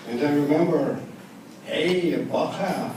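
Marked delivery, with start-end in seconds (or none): 1.7-2.9 father's Yiddish-German speech. Retold or imitated. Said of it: "That was his speech".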